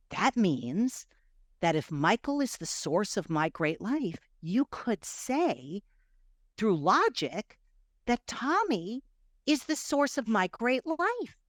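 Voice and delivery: slow, halting dawning realization; reasoning toward a startling conclusion; retold revelation. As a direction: work it out piece by piece, pausing between phrases. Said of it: "like this revelation or something".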